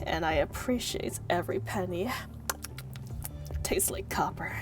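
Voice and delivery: whispering. Pretend. Whispered joke about pennies.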